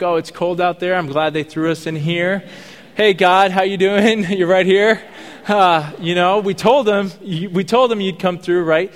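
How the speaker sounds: hammed-up glee with a laugh; playful cheer. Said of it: "They're like".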